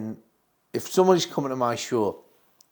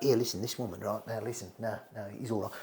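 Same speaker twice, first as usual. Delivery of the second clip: Max Miller; 3 semitones lower, 11 dB quieter, faster than usual. Retold or imitated. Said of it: "And he'd be like".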